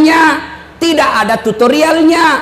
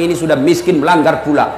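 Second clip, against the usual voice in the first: much lower, wry fatherly voice; amused Prophet; 9 semitones lower, faster than usual. Retold or imitated. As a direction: tease him gently from deep down. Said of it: "Nabi bilang".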